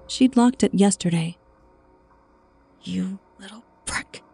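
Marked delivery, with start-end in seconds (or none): 2.8-4.2 soft, furious hiss. A narrator's reading. Woman discovering her shed unlocked, hissing in anger. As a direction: hiss it through teeth. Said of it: "she hissed".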